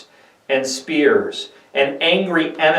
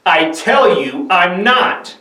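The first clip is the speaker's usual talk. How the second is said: higher, slow, desperate insistence; desperate denial; 6 semitones higher, 4 dB louder, slower than usual. Acted. Peter's third denial, high and desperate. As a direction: refuse with your last strength.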